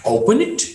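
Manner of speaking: "it" lifted at the end; rising tone. Shown as a demonstration. Teacher shows a yes-no question, rising tone. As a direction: let "open it" climb to a questioning end. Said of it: "marked with the rising tone".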